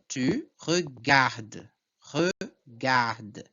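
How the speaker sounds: slow tu regarde, final E and S silent; pronounced up to D. Shown as a demonstration. Teacher models second person, slow tu regarde with silent ending. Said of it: "só vou pronunciar até a letra D".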